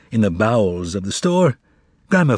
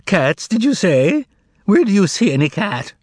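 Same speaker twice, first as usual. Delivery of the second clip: mock deaf old man; 7 semitones higher than usual. A narrator's reading. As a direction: play hard of hearing, innocent. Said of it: "as if he were hard of hearing".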